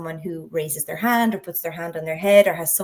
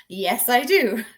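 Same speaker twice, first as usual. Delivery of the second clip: fake confidence; 3 semitones higher, slower than usual. Shown as a demonstration. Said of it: "fake confidence".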